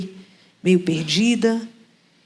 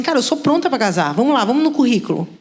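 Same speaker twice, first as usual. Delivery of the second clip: confident claim; 2 semitones higher than usual. Retold or imitated. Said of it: "Eu falo assim".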